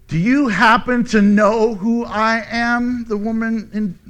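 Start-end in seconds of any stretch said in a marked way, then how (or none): 0.1-3.0 slow, affronted demand; how-dare-you indignation, measured and pointed; indignant. Acted. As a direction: draw it out as an offended challenge. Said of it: "replied indignantly".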